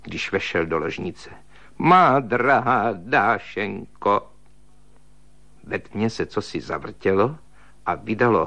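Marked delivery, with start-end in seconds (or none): 1.8-4.3 slow, drawn-out tearful plea; mournful "Má drahá Dášenko". Acted. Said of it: "řekl plačtivým hlasem".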